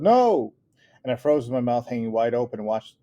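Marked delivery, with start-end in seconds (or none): 0.0-0.5 higher, loud desperate cry; yelled. A narrator's reading. Mother yelling as the puppy falls, desperate yell. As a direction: scream no at the falling puppy. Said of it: "and Mama yelled".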